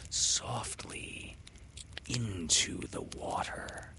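soft, slow hushed words; whisper. A narrator's reading. Narrator whispering as the mermaid drags Windy. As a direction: let it sink away.

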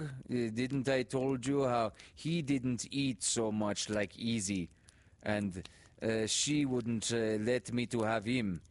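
put-on high, slow, earnest child's voice; immigrant boy pleading. A narrator's reading. Boy begging teacher to let him keep Izzy. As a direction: plead to keep the dog, halting and eager.

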